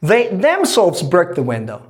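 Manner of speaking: "They themselves" weighted, then a falling finish; emphasis on THEY THEMSELVES. Shown as a demonstration. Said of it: "We bring emphasis on the word them".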